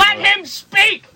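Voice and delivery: very high, drawn-out comic cry; high-pitched crowd-member plea, stretched out; mock heckler. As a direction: heckle slowly in a high put-on voice.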